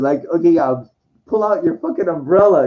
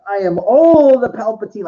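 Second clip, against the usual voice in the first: mock heroic boast; 3 semitones higher, 4 dB louder than usual. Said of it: "she's gonna go".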